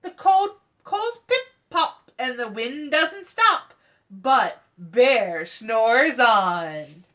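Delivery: put-on lively storybook reading for children; story narration. Teacher reading a bedtime story to children, lively narration. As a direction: read it to a class of kids, bright and rhythmic. Reads picture book aloud.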